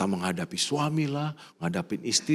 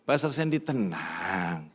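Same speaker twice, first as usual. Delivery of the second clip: calm reassurance; 5 semitones lower, slower than usual. Pretend. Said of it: "Saya akan bilang gitu ya".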